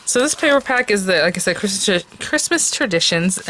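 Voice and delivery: talking around a cough drop; words slightly thick from a cough drop in the mouth; mouth full. Real, not acted. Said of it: "I have a cough drop in my mouth".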